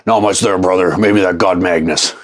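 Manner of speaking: buddy unimpressed by the pictures, in a lightly put-on gruff voice; Vinny voice. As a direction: lightly voice your buddy as a gruff wrestler type. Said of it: "my best Vinny voice".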